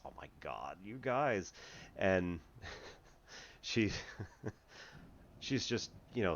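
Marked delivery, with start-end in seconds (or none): 0.0-1.5 put-on mild valley-girl gush; a light hint of a bubbly California girl; chipper California girl. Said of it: "talking like this".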